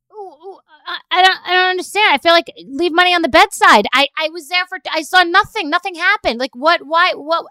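high, loud, bewildered disbelief; can't believe what just happened; baffled, indignant rant; exasperated. Retold or imitated. Baffled exasperated rant to her daughter.

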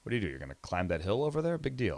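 mildly dismissive retold scoff; sarcastic. Former sceptic scoffing at a hiker, lightly sarcastic. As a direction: recall being unimpressed, with light sarcasm. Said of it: "I was sarcastic and closed-minded".

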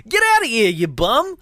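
high, loud mock street-tough shout; Joe. Joe chases off the stranger, hammed-up brush-off. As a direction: imitate a character shooing off a bum. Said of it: "'Cause that's how he talks, too".

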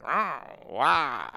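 a weak, half-hearted imitation of a whining dog; badly faked dog howl. Telling the story of the dog on the nail, a badly faked dog howl. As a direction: mimic a dog howling in pain, not very convincingly. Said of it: "I don't really know how to make a dog sound".

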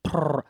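short mock cat purr; quick low purr, cat-like; imitated purr. Repeating her purr for his friend, mock purr. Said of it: "Like a cat".

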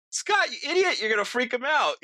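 very high, exasperated shout, retold; mock scolding. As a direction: imitate friends telling off a blabbermouth. Friends scold the tactless one.

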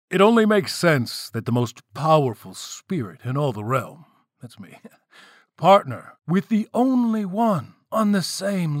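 hammed-up royal announcement with swooping emphasis; proclaiming king. Self-satisfied king presents his bride to the crowd, showy proclamation. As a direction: build up the reveal, stretching the last words.

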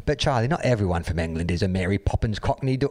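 lightly hammed-up English accent; put-on English accent. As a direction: read it in a mock Cockney accent. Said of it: "gotta do the proper voice".

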